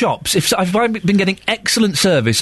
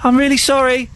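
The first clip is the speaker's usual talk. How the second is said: high, meek little apology; 8 semitones higher than usual. Retold or imitated. Scolded girl apologising from back of cinema, little voice. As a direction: imitate a small, sheepish voice from the back. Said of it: "this little voice going".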